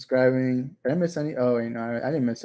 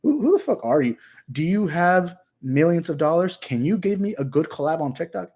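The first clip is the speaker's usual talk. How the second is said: high, incredulous celebrity brush-off; mock douchebag; 4 semitones higher, 4 dB louder than usual. Fake famous TikToker snubbing a fan, hammed-up disdain. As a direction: play the snobbish star, pitched up and scornful. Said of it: "I can't wait to be that guy".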